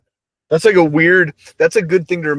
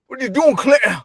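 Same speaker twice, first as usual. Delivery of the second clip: calling grandpa; 9 semitones higher than usual. Retold or imitated. Grandpa yelling at Clinton across the yard. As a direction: holler at the grandkid. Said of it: "They're like".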